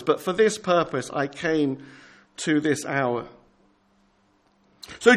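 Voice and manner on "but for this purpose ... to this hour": quiet resolve. Acted. Quiet resolve after plea.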